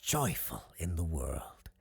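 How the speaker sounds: lightly voiced showman spinning a wondrous tale; theatrical circus owner. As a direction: savour the marvel, with dramatic pauses. Circus owner tells his story.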